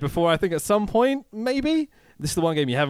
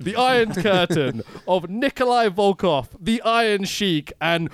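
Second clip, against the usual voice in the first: cracking up mid-line; 4 semitones higher than usual. Real, not acted. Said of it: "I laugh at my own jokes".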